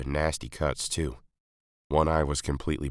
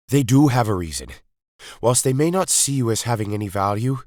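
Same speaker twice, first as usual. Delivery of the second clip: grave, urgent explanation, a touch higher; lightly voiced Doctor laying out the threat; 5 semitones higher, 4 dB louder than usual. A narrator's reading. The Doctor explains the Daleks' cruelty to the rebels, grave.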